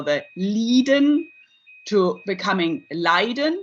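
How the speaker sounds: Lieden said with long ee, then Leiden with ai diphthong; diphthongization demo. Shown as a demonstration. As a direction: contrast Lieden and Leiden, ee versus ai. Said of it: "the diphthongization".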